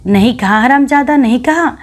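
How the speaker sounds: high, shrill-pitched furious shout; furious yell. A narrator's reading. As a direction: scream the denial back at him. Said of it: "दिगंबरी चिल्ला उठी".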